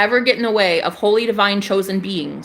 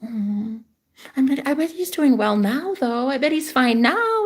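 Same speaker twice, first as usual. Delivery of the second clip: mock soft forgiving; 3 semitones higher than usual. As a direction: play at going soft on the ex. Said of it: "be soft and kind and forgiving".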